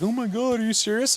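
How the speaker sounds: high, squealing "are you serious"; shocked disbelief. Retold or imitated. Woman at camp reacting to the news, high shocked squeal. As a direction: gasp it out, way up high in mock shock. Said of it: "And she's like".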